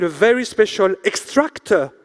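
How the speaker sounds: "extractor" set apart with deliberate emphasis; stress on EXTRACTOR. Real, not acted. Host presents a joke innovation award, stress on EXTRACTOR. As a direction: lean on the word "extractor". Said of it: "I put emphasis on the word extractor".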